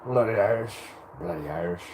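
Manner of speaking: practising a shaky-attempt Irish accent, repeated. Streamer who can't do a good Irish one, practising an Irish accent. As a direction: have another stab at an Irish accent. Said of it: "still can't do a good Irish one".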